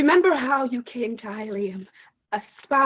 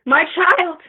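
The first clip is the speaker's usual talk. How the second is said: put-on My child cried out high and loud; loud grieving cry of My child; anguished call; 4 semitones higher, 6 dB louder than usual. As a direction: call My child toward the tent in despair. Mother calls daughter from the tent.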